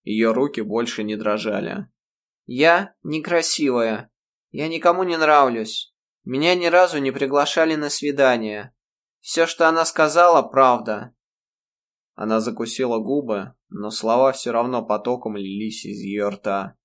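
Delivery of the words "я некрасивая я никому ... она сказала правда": исповедь. A narrator's reading. Ирма изливает душу.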